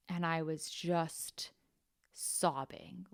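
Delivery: soft breathless whisper. Real, not acted. Telling a friend about the night she cried, whispered. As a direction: drop to a whisper.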